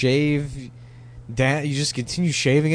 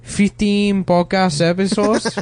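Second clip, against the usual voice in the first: silly put-on voice; 4 semitones higher than usual. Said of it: "a guy that talk like this".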